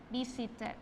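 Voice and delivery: visited ending in a clear "-ted"; full ED syllable. Shown as a demonstration. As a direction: give visited a separate final syllable. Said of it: "va a ser E D". (visited dicho "visi-ted", con ED completa)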